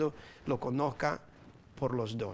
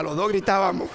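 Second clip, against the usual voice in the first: normal talking voice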